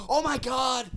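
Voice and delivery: high, horrified dad exclamation; shocked dad. Retold or imitated. Dad walking in on his son, shocked cry. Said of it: "My dad opens the door and goes".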